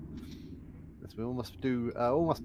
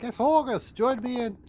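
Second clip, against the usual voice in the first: shouting back; 5 semitones higher than usual. Acted. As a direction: call out boldly to Horgus. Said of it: "like, shouting back".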